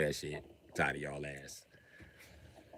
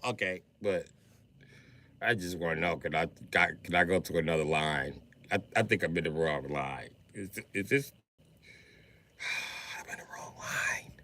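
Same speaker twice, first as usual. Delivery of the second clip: lower, softer timid pleading; meek voice fading to a sigh; timid confused soul; 7 semitones lower, 10 dB quieter than usual. Acted. Confused soul asking the angel to change line, timid and soft.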